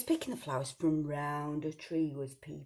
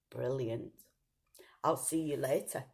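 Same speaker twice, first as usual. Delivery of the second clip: lower, hushed sneaky wolf; sly wolf whisper; 4 semitones lower, 3 dB quieter than usual. Acted.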